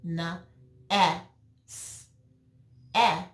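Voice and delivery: "N, E, S, E" as letter sounds nn, eh, sss, eh; isolated phonics sounds for "N, E, S, E", short E as eh; sounded out. Shown as a demonstration. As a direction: sound out "N, E, S, E" with long gaps between. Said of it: "What sound do you hear?".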